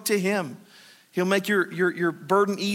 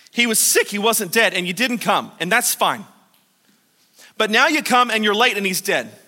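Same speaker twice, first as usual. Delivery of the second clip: a lightly voiced exasperated Martha; 2 semitones higher, 4 dB louder than usual. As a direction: vent at Jesus for coming late. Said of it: "Martha has to be exasperated".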